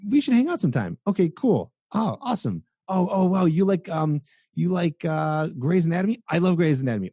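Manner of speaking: high, gushing people-pleaser voice; eager friend-zone guy. Retold or imitated. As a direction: agree with everything, pitched high and eager. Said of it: "just acting like a friend".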